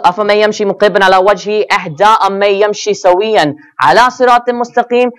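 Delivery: fast, melodic Quranic recitation. Acted. Preacher reciting the verse to his congregation, melodic recitation. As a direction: chant the verse in tajwid.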